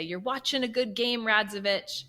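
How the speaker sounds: lightly voiced Colombian accent, calling a player out. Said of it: "this tiny little Colombian guy with this accent".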